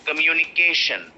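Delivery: COMMUNICATION as kuh-myu-ni-KAY-shun; correct stress on KAY. Shown as a demonstration. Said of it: "the real pronunciation of the word".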